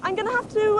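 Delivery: talking with sand in mouth; words round a gritty mouthful. Real, not acted. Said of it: "I got so much sand in my mouth".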